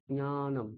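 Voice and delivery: জ্ঞানম with nasal nya at the start; correct Sanskrit pronunciation. Shown as a demonstration. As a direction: model জ্ঞানম as gnya-nam. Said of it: "তাহলে ঠিক উচ্চারণ হবে".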